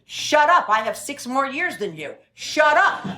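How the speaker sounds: mock bickering, snapping back. To her partner on the phone, a mock irritated shut up.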